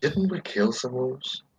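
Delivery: hushed, half-whispered aside. Half-whispering a question to a companion in character: half-whispering to another character. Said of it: "I whisper, I whisper to, to Amara".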